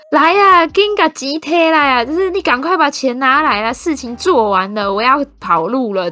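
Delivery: loud, high, urgent call that fades; urgent shouting on phone. Retold or imitated. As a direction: hurry someone along over the phone. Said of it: "他说".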